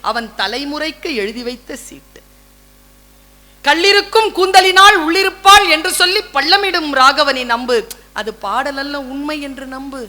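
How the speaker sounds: measured verse recital, lingering on the lines; poem recital. Acted. Speaker recites his son's verse on Kamban, savouring it. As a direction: savour each line of the verse.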